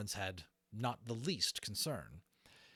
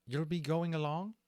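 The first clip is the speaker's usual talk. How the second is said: The speaker's voice, misread as Levitas; 8 semitones higher, 5 dB louder than usual. Shown as a demonstration. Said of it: "that's me trying to do Levitas's voice".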